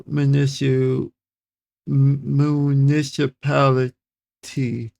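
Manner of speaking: MUNICIPALITY slow, broken before the last syllable; sounding out. Real, not acted. Reader beating a tongue twister, slowly sounding out municipality. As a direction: work slowly through "municipality" in pieces. Sounding out, then saying fluently.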